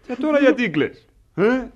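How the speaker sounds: a son scolding his crying mother; irritated scolding. Acted. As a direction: snap at her to stop crying.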